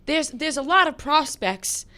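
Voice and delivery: put-on accidental Long Island accent. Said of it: "You from Long Island now?".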